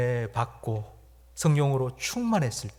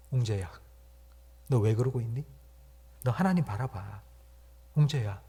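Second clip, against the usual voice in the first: talking to himself. Retold or imitated. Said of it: "저는 혼잣말로".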